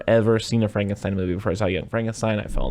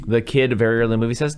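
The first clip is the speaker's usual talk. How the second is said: ordinary talk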